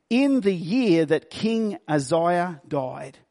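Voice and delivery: slow, measured reading of the verse; scripture reading. Acted. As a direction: read it out slowly like scripture.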